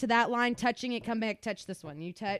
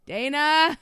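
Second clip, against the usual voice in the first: tired dad; 5 semitones higher than usual. Retold or imitated. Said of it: "He's like".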